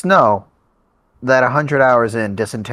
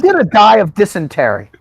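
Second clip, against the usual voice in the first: Taft voice; 8 semitones higher, 5 dB louder than usual. Acted. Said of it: "Taft sounded like Burt Reynolds".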